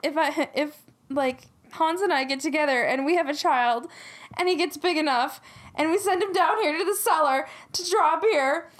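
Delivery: imitating someone getting upset; mock tearful worry. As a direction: work yourself up over an imagined disaster. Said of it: "she starts crying because she's like".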